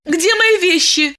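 high, alarmed question; a sudden jolt of fear; frightened. Acted. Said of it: "испугалась Диана".

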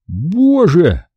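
high-pitched exclamation of dismay; shocked realisation. A narrator's reading. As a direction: cry out as it dawns. Realisation of the missing films.

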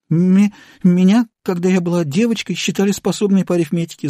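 high, stuttering and timid; stammering babble. A narrator's reading. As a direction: stumble over the words in fear. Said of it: "запинаясь, пролепетала". (запинаясь, испуганно лепечет высоким голосом)

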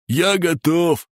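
high-pitched eager call; eager torturer. Acted. Fat torturer announces readiness in silence, high eager voice.

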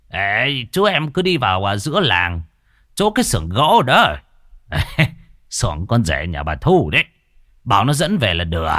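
lightly voiced old village man, casual; a hint of a gruff old man giving directions; an old man pointing the way, offhand; old villager. Old man Tín voiced in story.

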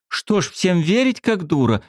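high indignant retort; girl indignant at being called naive. A narrator's reading. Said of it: "возмутилась Светка".

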